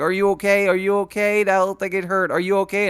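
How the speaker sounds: lightly voiced dog asking again and again; worried dog voice.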